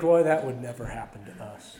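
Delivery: low, dismissive imitation of a smug listener; lightly mock our own complacency; mock smugness. Preacher imitating smug congregants, low mock dismissal. Mocking smug churchgoers' self-assurance.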